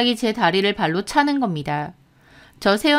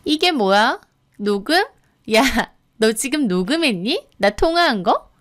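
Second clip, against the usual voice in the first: incredulous sneer with rising questions; mocking disbelief; scornful, sneering; 2 semitones higher than usual. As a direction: scoff at what you have just caught. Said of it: "코웃음 치더라고요".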